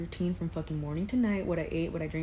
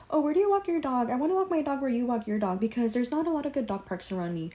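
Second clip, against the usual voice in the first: imitating coworker; 5 semitones higher than usual. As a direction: mimic her asking about dog parks. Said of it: "she goes".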